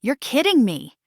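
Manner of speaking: mild jump of surprise; surprised disbelief. Shown as a demonstration. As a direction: react as if it can't be true. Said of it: "let's explore surprise".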